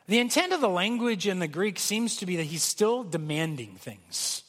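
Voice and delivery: normal talking voice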